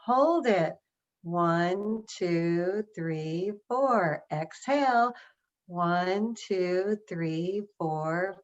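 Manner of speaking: counting slowly through the breath; guided breath count. Shown as a demonstration. Leading the audience in a breathing exercise, steady count. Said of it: "I'm gonna count and you're gonna breathe".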